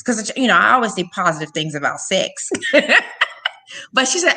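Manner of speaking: ordinary talk, nothing marked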